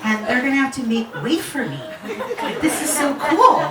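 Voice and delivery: quick, giddy retold excitement; excited. Patient about to ride in an ambulance, excited. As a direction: rush it out with giggly delight. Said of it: "I was so excited".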